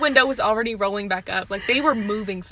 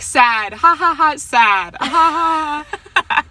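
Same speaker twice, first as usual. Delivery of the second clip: mock sadness; 4 semitones higher, 9 dB louder, slower than usual. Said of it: "We're like".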